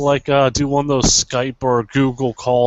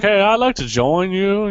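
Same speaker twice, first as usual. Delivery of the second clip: higher-pitched eager caller; prank caller; 8 semitones higher than usual. Acted. Retelling a friend's call to the recruitment center, mock eager. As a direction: put on a higher voice to ask.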